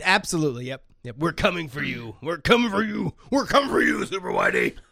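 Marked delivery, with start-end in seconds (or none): 1.2-4.7 animated delivery with wide, swooping pitch swings. Mocking a critic with a pretend threat: Alex Jones voice. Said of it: "My inner Alex Jones".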